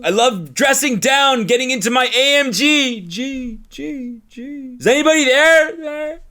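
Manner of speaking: sing-song smug flex into the void; mocking show-off voice. Mocking flexer in comments.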